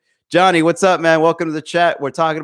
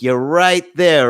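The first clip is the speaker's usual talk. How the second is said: slow peak; 3 dB louder, much slower than usual. Shown as a demonstration. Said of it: "and then it goes like this".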